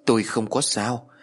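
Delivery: slow, measured reassurance; the shaken master reassuring the women, said slowly. Acted. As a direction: take each word slowly and calmly. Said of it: "Thầy chậm rãi nói".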